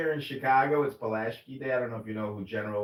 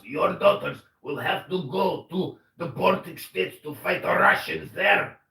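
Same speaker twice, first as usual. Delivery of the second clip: lightly voiced pleading politician; a hint of an accented president begging the West; mock foreign leader. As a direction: demand the money like a desperate head of state. Mock Ukrainian leader asks money.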